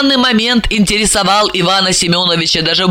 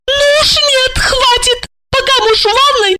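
put-on high, indignant young woman's voice; lady of the house, up high and prim; young wife Lipochka. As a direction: play the flustered wife, pitched high.

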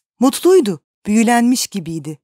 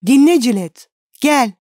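eager call; 4 semitones higher, 6 dB louder than usual. A narrator's reading. Painter calls his sweetheart.

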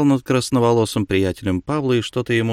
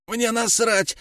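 hissed; 13 semitones higher, slower than usual. A narrator's reading. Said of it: "прошипел он".

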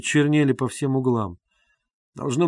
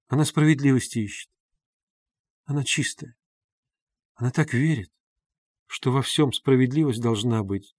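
anguished pleading. A narrator's reading. Sonya defends Katerina Ivanovna, anguished and pleading. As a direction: plead for her with pain. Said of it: "Соня проговорила это точно в отчаянии, волнуясь и страдая".

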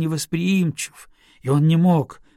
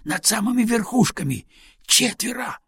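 breathless cry, climbing higher; enemy spotted shout; 8 semitones higher than usual. Acted. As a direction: gasp out the warning. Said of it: "захлёбно крикнул".

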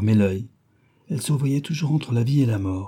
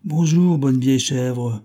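cheeky greeting; 3 semitones higher, 3 dB louder, slower than usual. Acted. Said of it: "dit-elle".

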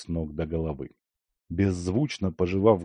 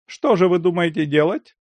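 Lyakhovsky voice; 10 semitones higher, 5 dB louder than usual. A narrator's reading. Lyakhovsky asks.

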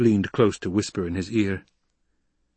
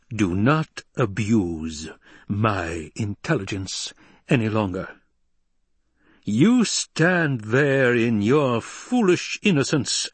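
slow, deliberate scolding; measured, building reproach; seething Emperor; 3 semitones higher, slower than usual. Acted. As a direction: spell out imperial displeasure word by word. Emperor berates the Baron.

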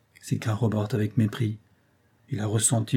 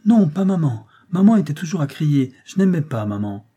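put-on higher, louder little boy insisting; a small boy firmly refusing; child stubbornly saying no, higher; resolute child; 5 semitones higher, 5 dB louder than usual. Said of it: "s'écria résolument l'enfant".

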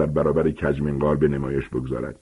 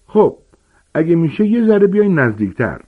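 higher, smiling giant's voice; friendly gamekeeper, lifted and smiling; smiling Hagrid; 11 semitones higher, 4 dB louder than usual. A narrator's reading. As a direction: beam as you coax the class closer. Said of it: "لبخند زنان گفت".

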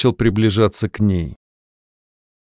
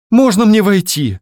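close to tears; 9 semitones higher, 4 dB louder than usual. A narrator's reading. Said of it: "едва не плача".

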